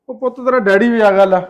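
put-on loud call to a child. Uncle tells child that father has come, calling out. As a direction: raise your voice to announce an arrival.

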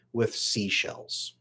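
slow whispered "with seashells"; hushed reveal. Real, not acted. Storyteller drawing viewers in, whispered and slow. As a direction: breathe the words out slowly. Building suspense in imagined story.

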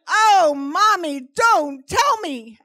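loud, high, drawn-out mock wail; slow, hammed-up horrified cry; horrified child. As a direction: wail it like an appalled kid. Horrified daughter learns about sperm.

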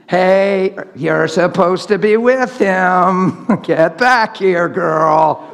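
slow, drawn-out mock holler; mock calling out. Preacher parodying God calling a wife back, mock calling out. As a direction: call her back with exaggerated slowness.

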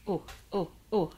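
blowing on a hot mouthful; talking around hot food; mouth full of hot food. Real, not acted. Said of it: "It's hot, hot".

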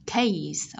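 low "Case" with a clear final s; isolated teacher demo of "Case"; released S ending. Shown as a demonstration. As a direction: release the hissed s at the end of "Case". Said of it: "chúng ta sẽ bật ending sound S".

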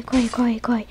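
breathless whisper, run run; urgent hushed whisper; whispered urgency. Real, not acted. Fleeing killer, whispering.

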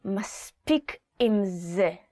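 "מספיק עם זה" said through gritted teeth; through your teeth. Shown as a demonstration. Parent to fidgeting child, through gritted teeth. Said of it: "you also kinda say it through your teeth".

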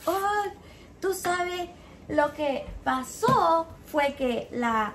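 a hint of a Cuban accent, retelling her. Retelling the customer's phone explanation, light Cuban accent. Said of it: "a Cuban accent".

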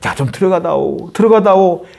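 애걸하는 아버지를 흉내 내며; 살짝 애원하듯, 되풀이할 때 더 높고 세게. Retold or imitated. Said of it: "애걸하는 거예요". (아들에게 애걸하는 아버지 말투로)

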